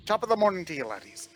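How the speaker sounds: a hammed-up stage Irish lilt, lightly done; terrible Irish accent. Streamer reading an Irish donor's message aloud, in a bad mock Irish accent. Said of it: "I have a terrible Irish accent".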